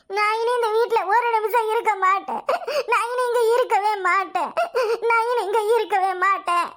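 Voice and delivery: milk the tears while vowing to go; fake sobbing. Accused daughter-in-law threatens to leave, hammed-up sobbing. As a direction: sob the threat to leave, overacted. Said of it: "நமக்கு நடிக்க தெரியலையே".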